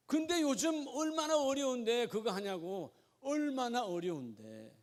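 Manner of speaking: imitated grumbling, high at first then slowing and dropping; mock complaint. Church member objecting to mission giving in hard times, mock complaint. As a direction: protest like a reluctant giver, trailing into a slow lament. Preacher voices a reluctant giver's objection.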